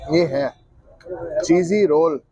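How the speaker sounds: chewing while talking; speaking after big bite; mouth full. Real, not acted. Seen 0: bit roll at -3 to -1; chewing, holding roll while speaking.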